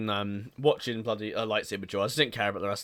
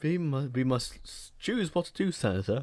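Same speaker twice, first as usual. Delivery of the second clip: Palpatine voice; 2 semitones higher, 4 dB quieter than usual. Retold or imitated. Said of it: "when he's Palpatine's like".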